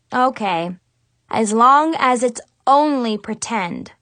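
grumpy. Acted. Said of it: "I grumped".

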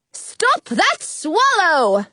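slow, drawn-out shout; shouted order. Acted. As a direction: bellow it after the fleeing bird. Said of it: "I hear the three of clubs shout".

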